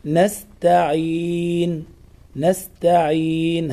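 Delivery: "نستعين" chanted slowly, clear ayn, long final ee; correct recitation. Shown as a demonstration. Teacher models how it is pronounced, slow "نستعين". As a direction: draw out the ending of "نستعين". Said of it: "هكذا تنطق".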